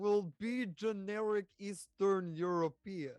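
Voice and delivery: put-on Russian accent; generic Eastern European accent. Player answering the game master's request, Russian accent. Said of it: "can you do a Russian accent?".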